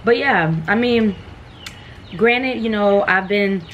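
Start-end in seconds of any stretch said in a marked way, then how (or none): 0.0-1.2 talking between sips of a drink; drinking while talking. Real, not acted. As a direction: speak with a drink at your lips. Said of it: "I'm drinking my Zachary".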